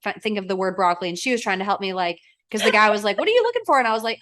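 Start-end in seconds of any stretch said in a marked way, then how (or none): 3.2-3.8 high-pitched imitation of a helper; quoted helpful question. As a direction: pitch it right up, mimicking someone offering help. Quotes a man offering help.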